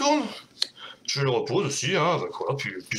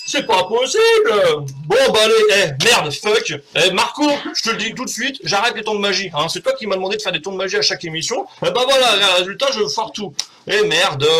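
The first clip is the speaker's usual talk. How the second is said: loud exasperated complaint; fed-up grumbling; 5 dB louder than usual. Real, not acted. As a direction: vent your frustration, loud. Still fuming after failed trick. (râlerie exaspérée et forte)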